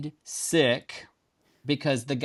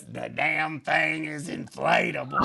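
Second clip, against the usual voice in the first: mock exasperated Anita; slower than usual. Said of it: "Anita goes".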